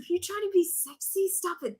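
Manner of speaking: appalled. Retold or imitated. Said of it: "he's like".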